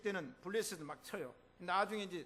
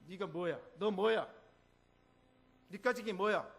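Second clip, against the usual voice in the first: defying Satan; 4 dB louder than usual. Acted. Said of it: "우리 사탄에게 얘기합시다".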